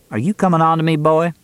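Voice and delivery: Carrie, teasing. A narrator's reading. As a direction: put the question to him with a lilt, voice up.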